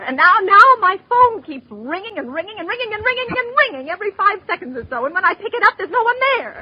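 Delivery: rising, worked-up complaint; nervous invalid getting shrill; agitated complaint. Acted.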